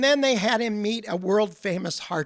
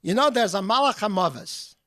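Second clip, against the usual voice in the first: put-on Polish accent; 3 semitones higher than usual. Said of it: "he would say in his wonderful Polish accent".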